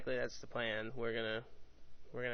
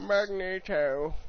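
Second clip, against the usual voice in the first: Magneto voice; 6 semitones higher, 8 dB louder, slower than usual. Pretend. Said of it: "we read 'em in voices".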